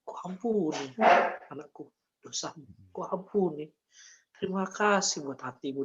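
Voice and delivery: forgive gently, in short phrases; tender forgiveness. Retold or imitated. God voiced forgiving his child.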